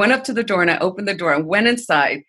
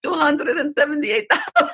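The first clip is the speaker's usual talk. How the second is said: high imitated Asian accent, breaking up at the end; attempted Asian accent; 9 semitones higher than usual. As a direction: deliver it as a punchline in her Asian accent. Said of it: "in her accent, which I could not replicate".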